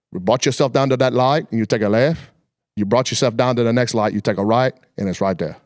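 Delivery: imitating a gas station clerk with a light Cajun accent. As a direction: quote the clerk in a mild Louisiana Cajun accent. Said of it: "you gotta talk like that".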